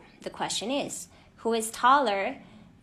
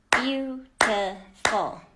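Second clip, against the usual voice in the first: slow clear model word; 3 dB louder, much slower than usual. Shown as a demonstration. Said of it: "Let's go on to".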